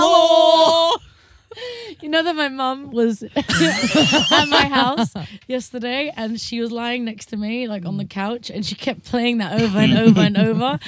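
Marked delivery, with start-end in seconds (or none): 0.0-1.0 drawn-out Scottish hello; slow broad Scottish greeting; Scottish accent. Retold or imitated. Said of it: "The hello". 2.0-6.1 laughing. Real, not acted. Laughing while telling story.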